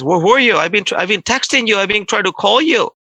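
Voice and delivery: imitated agitated telling-off; retold upset scolding. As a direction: complain like an upset boss, without shouting. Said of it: "he was very upset".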